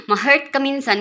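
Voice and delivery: words through leftover laughter; laughing. Real, not acted. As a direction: keep laughing while talking. Still laughing after laugh. (natatawa pa)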